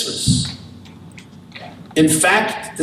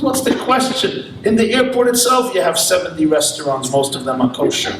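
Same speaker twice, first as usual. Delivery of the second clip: mock incredulous Israeli; 2 semitones higher than usual. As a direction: brush off the silly question with a rush of kosher options. Israeli answers the pious newcomer.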